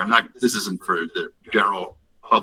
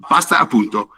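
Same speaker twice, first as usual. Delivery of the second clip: Tuscan Italian exclamation; 3 semitones higher, 4 dB louder than usual. Retold or imitated. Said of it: "It's very, very Tuscan Italian".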